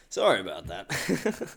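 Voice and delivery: low, slow insincere sorry; mock apology. Real, not acted. Apologizing to listeners without meaning it, mock contrition. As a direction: drag the apology out, then chuckle.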